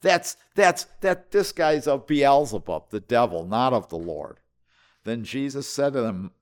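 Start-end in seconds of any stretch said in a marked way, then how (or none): 0.0-4.4 a hint of indignant, scandalized townsfolk; lightly voiced outrage, pitch jumping up in protest; mock-shocked grumbling among themselves; quarreling crowd. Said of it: "he's hearing them quarreling among themselves".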